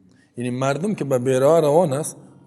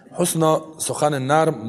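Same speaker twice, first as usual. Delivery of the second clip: ordinary delivery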